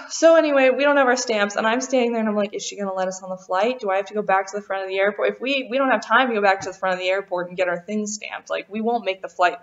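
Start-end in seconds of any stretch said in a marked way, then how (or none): 2.5-5.3 quick, hushed worried muttering; anxious inner voice. Retold or imitated. Wondering if the gate agent will let them board, fast and hushed. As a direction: rush the words out under your breath in panic. Panicking about missing the flight.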